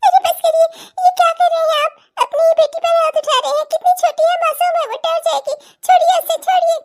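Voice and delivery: high, loud frantic pleading; pleading mother. Acted. Mother begging her husband to stop hitting their daughter, frantic. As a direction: beg him to let the child go.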